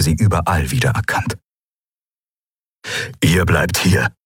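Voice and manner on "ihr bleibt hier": commanding. A narrator's reading. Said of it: "hatte Keru ihr und Nelen befohlen".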